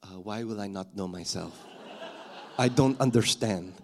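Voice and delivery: low, hesitant mock confusion; baffled girl. Girl answers the Aussie wife's odd phrase, baffled. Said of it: "the girl looked at her and went".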